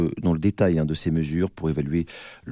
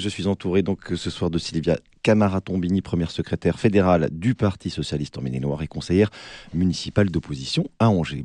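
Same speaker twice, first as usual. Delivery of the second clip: cavernous voice. Real, not acted. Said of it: "je vous prie de m'excuser pour ma voix caverneuse ce soir". (voix caverneuse et enrouée par un rhume)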